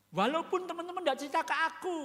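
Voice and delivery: Jesus lightly voiced addressing Thomas; a hint of Jesus calling out Thomas; Jesus speaking.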